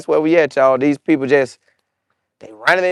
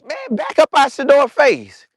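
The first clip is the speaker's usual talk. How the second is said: higher, mock angry call; mad yell at lineman; 9 semitones higher than usual. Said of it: "I was mad at the D lineman".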